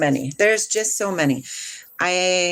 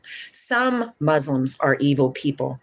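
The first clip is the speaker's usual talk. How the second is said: "Some" stretched out at the front; stress on Some; 5 semitones lower than usual. Shown as a demonstration. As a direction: make "Some" the key word. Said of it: "Use the word some".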